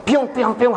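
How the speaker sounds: wailing "ppiyong" siren noise; imitated sirens. Teller describes police cars swarming the scene, imitated sirens. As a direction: mimic police sirens in a quick repeated chant.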